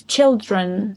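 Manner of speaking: put-on "children" with a crisp ch at the start; clear ch sound. Shown as a demonstration. Teacher modelling "children" with a crisp ch. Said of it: "make sure to pronounce all sounds".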